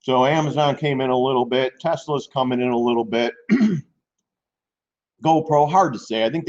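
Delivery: talking while munching fruit; words round a mouthful; mouth full. Real, not acted. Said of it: "Sorry if I'm munching away".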